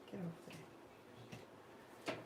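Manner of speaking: slow whispered get off there to the dog; whispered command to the dog; whispered shoo. Real, not acted. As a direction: hiss it softly at the pet. Shooing the dog off.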